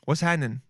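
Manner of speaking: "happening" contracted to HAN-nin; slang pronunciation. Shown as a demonstration. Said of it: "But H A N N I N".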